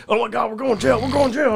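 high, panicky friend wailing about jail; imitating a freaked-out drunk buddy; panicked friend. Drunk buddy in the back seat, panicking in a high voice. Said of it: "And he's like".

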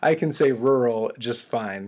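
"rural" said slowly with both r's clear; careful pronunciation. Shown as a demonstration. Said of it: "unlike you and Jonathan Howe".

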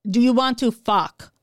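slow imitated French-Canadian accent; lightly mimicked French-accented speaker. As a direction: put on a rough French accent, slowly. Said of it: "French type of accent".

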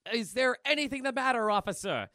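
high, loud mock innocence; hammed-up innocent exclamation; exclaiming. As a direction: ask the officer in a cartoon voice. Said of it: "Milk exclaims".

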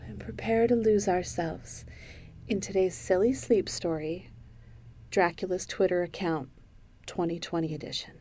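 calm, lightly guided relaxation; sleep story intro. Acted. Host settling listeners down for a silly sleep story, calm guidance. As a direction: ease listeners gently into a bedtime tale, with long pauses.

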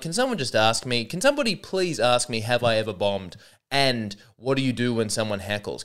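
sarcastic mock plea to be asked; half-hearted sarcastic whine; mock pleading. Comic asking about bombing, sarcastic mock plea. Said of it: "he says sarcastically".

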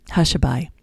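put-on whispered title for a sleepy baby. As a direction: breathe the word like a hush. Whispered title before lullaby.

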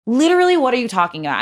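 high, disbelieving what-are-you-on-about; incredulous. Retold or imitated. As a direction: shoot up in pitch in disbelief. Confronted by boss at register.

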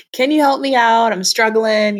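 a hint of a struggling kid asking; pleading child self. Student asking her teacher for help, lightly pleading.

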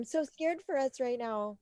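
overacted fearful line; dramatic quote. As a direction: play it big and theatrical. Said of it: "So dramatic".

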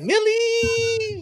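high, drawn-out mock question; imitating uptalk. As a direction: stretch the name up like a question. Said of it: "She's like".

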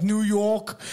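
"New York" in a mock New York accent. Shown as a demonstration. Listing regional accents to co-hosts, mock New York accent. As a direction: say a stereotype "Noo Yawk". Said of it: "have all sorts of different accents".

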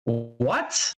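imitated disbelief, pitch leaping up on "just"; mock stunned questioning; baffled reaction. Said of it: "everyone around me is like".

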